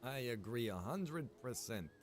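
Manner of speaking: ordinary talk, nothing marked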